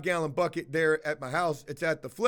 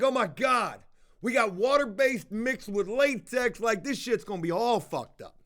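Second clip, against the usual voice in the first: retold freak-out; 4 semitones higher than usual. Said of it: "and I'm freaking out".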